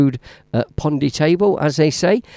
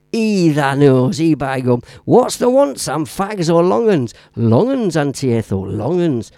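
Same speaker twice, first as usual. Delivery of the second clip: put-on Northern English accent. Midlander showing off the Northern accent he loves, hammed-up. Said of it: "Love the Northern accent".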